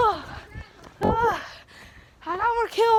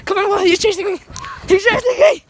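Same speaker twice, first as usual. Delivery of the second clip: being chased; 5 dB louder than usual. Real, not acted.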